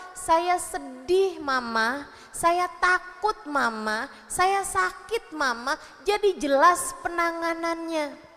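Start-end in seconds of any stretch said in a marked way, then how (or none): 0.1-5.8 put-on child telling mother. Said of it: "dia bisa ngasih tahu".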